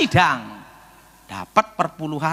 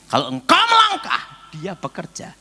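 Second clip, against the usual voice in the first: emphatic urging; 3 semitones higher, 3 dB louder than usual. Retold or imitated. God's instruction, acted emphatically.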